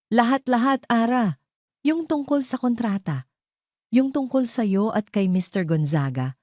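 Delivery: frightened aunt pressing her niece for money; panicked aunt. A narrator's reading. Panicked aunt demanding money on phone.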